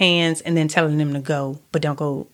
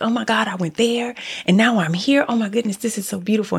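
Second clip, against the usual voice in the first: mild delight; 3 semitones higher, faster than usual. Pretend. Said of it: "And now it's like".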